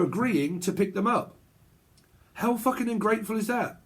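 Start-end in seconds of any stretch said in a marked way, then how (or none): 2.3-3.8 high-pitched exasperated question; affronted, at normal volume; indignant outburst. Acted. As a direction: protest the ingratitude, pitched up. Indignant outburst within acted argument.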